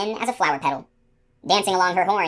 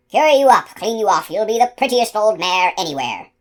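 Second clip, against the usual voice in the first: much louder, higher wheedling call; breathless loud coaxing; 4 semitones higher, 6 dB louder than usual. Acted. Panting gardener luring the unicorn, loud high coaxing. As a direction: coax her while gasping.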